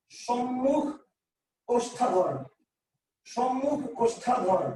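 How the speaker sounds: measured, drawn-out term with pauses; slow dictation. Shown as a demonstration. Teacher giving students a new term, slow dictation. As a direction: spell out সম্মুখ ওষ্ঠাধর slowly, word by word.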